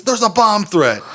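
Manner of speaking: high-pitched mock alarm; imitating panicked coworker. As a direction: mimic a coworker insisting on the emergency. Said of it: "this is how she approaches the situation".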